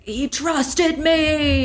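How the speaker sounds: high, long-drawn mock wail; mock crash out. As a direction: wail it out, stretching every word. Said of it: "He has a huge crash out".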